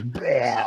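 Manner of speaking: mock retching "bleh"; imitated vomiting noise. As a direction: imitate a kid throwing up. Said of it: "the kid goes".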